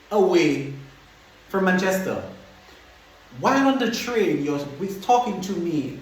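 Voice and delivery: baffled, indignant questioning; incredulous. Retold or imitated. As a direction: demand an explanation you cannot believe. Acted disbelief at friend being away.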